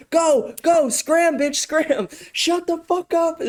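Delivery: a frantic handler squeaking commands off camera; mock camera handler. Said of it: "they were probably freaking out".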